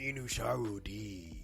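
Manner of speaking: slow, hammed-up Japanese accent. Co-host cuts into the recommendation, hammed-up Japanese accent. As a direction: stretch the title out in a mock Japanese accent. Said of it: "you just did an Asian accent".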